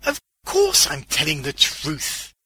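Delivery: indignant, loud protest; emphatic interjection. A narrator's reading. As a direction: cut in firmly, drawing it out. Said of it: "the man interjected".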